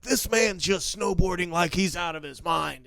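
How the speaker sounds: lightly hyped-up sportscaster; amazed commentator. Pretend. Commentators marvel at the snowboarder's run, mildly hyped. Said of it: "where they're like".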